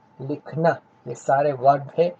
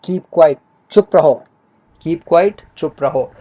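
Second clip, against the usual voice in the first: lightly acted classroom command, louder; a hint of a teacher hushing pupils; imitated teacher; 2 semitones higher, 7 dB louder than usual. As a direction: mimic a teacher calling for silence. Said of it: "अक्सर आपसे teacher कहती है ना".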